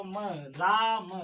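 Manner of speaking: म and राम said slowly, the short a gentle; slow, soft म, राम; soft unstressed a. Shown as a demonstration. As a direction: sound out राम slowly and softly. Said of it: "धीरे से बोलो".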